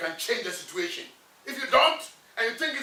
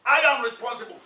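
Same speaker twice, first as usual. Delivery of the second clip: chest-thumping affirmation, a little louder; firm declaration; 4 dB louder than usual. Shown as a demonstration. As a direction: proclaim "I am responsible" as a vow. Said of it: "hit your chest and say".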